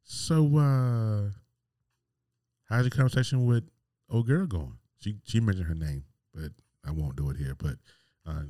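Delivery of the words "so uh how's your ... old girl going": pitched-up, loaded sarcastic question; sarcastic girlfriend catching him out; knowing hello. Retold or imitated. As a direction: let her know you know. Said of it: "she was like".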